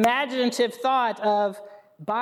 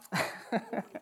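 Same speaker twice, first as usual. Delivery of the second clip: soft, breathy laugh; chuckle; 8 dB quieter than usual. Real, not acted. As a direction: laugh quietly at yourself. Laughs at own slip.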